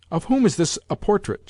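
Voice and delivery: a lightly voiced imperious grandmother asking; inquiring old lady. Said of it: "she inquired".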